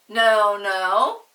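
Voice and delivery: loud firm now now; firm hush. Acted. Mother stops the children's quarrel, firm. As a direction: stop them like a mother. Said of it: "said a voice".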